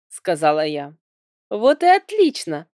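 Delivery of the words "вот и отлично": higher, louder burst of enthusiasm; acted cheer, pitched well up; delighted exclamation. A narrator's reading. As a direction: exclaim it with bright approval. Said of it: "воскликнул Арли".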